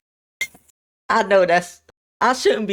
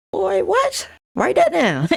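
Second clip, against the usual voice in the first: hyped disbelief; slower than usual. Retold or imitated. Hyped reaction to her line.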